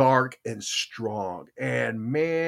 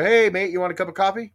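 put-on British accent; 6 semitones higher, faster than usual. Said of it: "they go".

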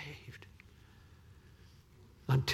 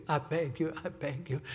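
pleading hush; 7 dB quieter than usual. Real, not acted. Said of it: "Please, I beg you".

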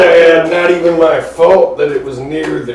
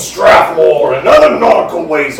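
pirate captain rant; 3 dB louder than usual. Acted. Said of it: "Shaking his fist".

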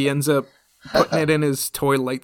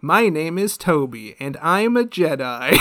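laughing declaration; 3 semitones higher, 5 dB louder than usual. Retold or imitated. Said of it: "He's like".

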